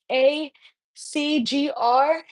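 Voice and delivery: slow, letter by letter; slow careful spelling of the username. Shown as a demonstration. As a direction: dictate each character slowly. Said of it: "asked if it's just my username".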